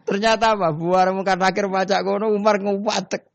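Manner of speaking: words pushed out high through laughter; giggly high narration; laughing while telling. Real, not acted. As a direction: tell it while still cracking up. Laughing through the story climax.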